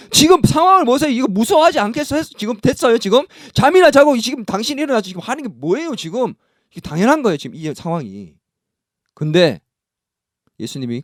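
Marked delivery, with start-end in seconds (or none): 0.1-6.3 higher, urgent complaint of panicked disciples; exasperated disciples. Retold or imitated. Disciples in the storm, exasperated and higher. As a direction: voice the disciples scolding a sleeping Jesus. Preacher voices scared disciples.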